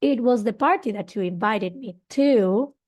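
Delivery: "party" stressed with a rise. Shown as a demonstration. Teacher showing focus on the party, stressed. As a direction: lift and lean on "party". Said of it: "So here's the party, what we are giving emphasis".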